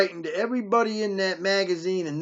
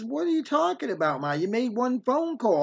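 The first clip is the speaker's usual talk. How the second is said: higher-pitched protest to a mother; retold exasperation, pitched up; exasperated retort; 4 semitones higher than usual. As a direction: argue back in disbelief. Son argues back at mother.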